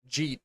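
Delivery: Jeet as one short syllable; run-together words. Shown as a demonstration. Showing how people ask about food, Jeet all one word. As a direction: squash "did you eat" into Jeet. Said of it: "It's all one word".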